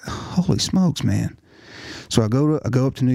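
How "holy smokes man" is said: slowed-down holy smokes of shock; stunned. Retold or imitated. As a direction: drag out the disbelief. Reacting to brother's death.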